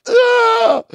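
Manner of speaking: high, drawn-out yell; hammed-up scream of despair; loud scream. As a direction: let out a full-volume wail. Acted outburst in therapy session.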